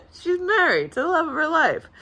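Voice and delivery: high, tearful happiness with a laugh; getting emotional. Real, not acted. Maid of honor on her best friend's marriage, high and choked up. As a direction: voice climbing as happy tears threaten. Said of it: "now I'm getting emotional again".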